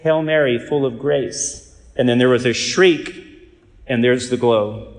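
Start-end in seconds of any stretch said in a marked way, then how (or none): 0.0-1.6 put-on child's voice. The demon finally recites the prayer for the priest, lightly childlike. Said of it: "and in a child's voice".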